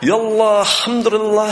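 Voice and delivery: loud, high-pitched imitation of Arabic ranting; mock angry Arabic. Doctor losing his temper in Arabic, mock angry outburst. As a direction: exclaim foreign words in comic outrage. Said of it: "혼자 막 열받아가지고".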